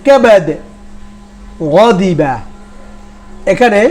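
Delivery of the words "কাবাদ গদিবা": careful word-by-word Qur'anic recitation; Arabic pronunciation drill. Shown as a demonstration. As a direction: recite each Arabic word distinctly, pausing after it. Recites Arabic example words. (আরবি শব্দের ধীরস্থির মশক)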